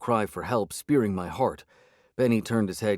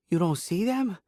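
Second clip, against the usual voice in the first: much higher, panicky question; trilling with panic; 10 semitones higher than usual. A narrator's reading. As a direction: ask in disbelieving panic. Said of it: "voice trilled with panic".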